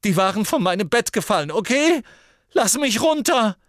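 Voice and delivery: put-on high, fast, loud protesting boy; Ron voice, high and loud. A narrator's reading. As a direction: shout it high while dangling.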